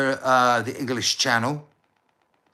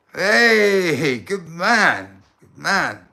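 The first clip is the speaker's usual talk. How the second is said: high, loud delighted cheer; excited praise; 5 semitones higher, 4 dB louder, much slower than usual. Real, not acted. Delighted praise for the stranger who loves Putin. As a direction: cheer him on like a mate. Delighted reaction to the partner's answer.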